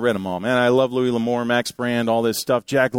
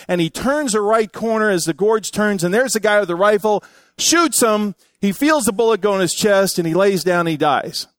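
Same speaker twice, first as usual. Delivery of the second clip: building excitement; 5 semitones higher than usual. Acted. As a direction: race through the gunfight as it peaks. Tense climax of retold western.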